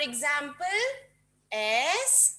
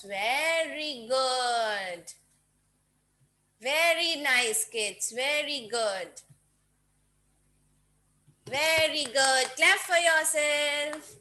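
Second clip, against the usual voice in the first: teacher praise; much slower than usual. Real, not acted. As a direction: praise them slowly and kindly. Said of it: "praising the kids".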